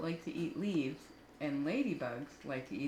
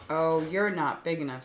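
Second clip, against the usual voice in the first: loud boast; 7 dB louder than usual. Acted. Grouchy ladybug boasting.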